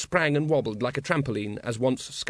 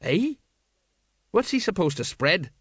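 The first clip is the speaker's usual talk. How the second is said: high, puzzled, anxious aside; anxiously baffled sergeant, pitched up; anxious whisper; 6 semitones higher than usual. A narrator's reading. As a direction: ask it worriedly on the side. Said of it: "whispered Sergeant Colon anxiously".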